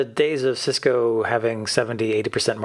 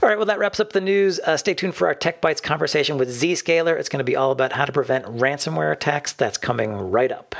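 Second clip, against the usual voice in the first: higher, lively wrap-up into a teaser; podcast segment sign-off; 4 semitones higher than usual. Acted. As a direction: wrap up and tease what's next. Announces the next segment.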